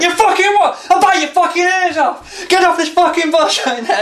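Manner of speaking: imitating an unhinged man screaming on the bus; mock furious yell. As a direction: scream it like a raging drunk. Retold madman ranting.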